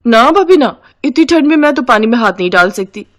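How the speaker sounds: refusing sister-in-law, high at the start; Supriya. Acted. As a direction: refuse with a high, protesting opening. (मना करती ननद की आवाज़)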